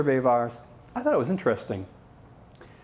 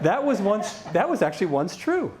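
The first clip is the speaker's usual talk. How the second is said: ONCE pitched up and punched; stress on once; 5 semitones higher than usual. Real, not acted. Speaker jokingly qualifying past praise of GE, stress on "once". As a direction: lean hard on the word "once". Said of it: "Emphasis on once".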